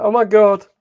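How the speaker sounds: loud, high-pitched exclamation; mock alarm. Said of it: "Forty-five days feels like".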